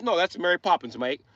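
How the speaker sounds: mock British objection; British accent. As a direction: put on a comic British accent. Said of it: "The British made up that word".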